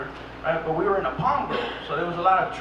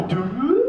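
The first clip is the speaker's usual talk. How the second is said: imitated dud sound; 2 semitones higher than usual. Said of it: "all I hear is".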